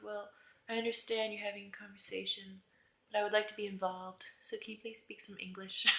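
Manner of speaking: hushed, tentative imagined ask; soft polite request. Pretend. Imagined plea to friends speaking another language, soft and polite. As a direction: ask it softly and politely, trailing down to near-whisper.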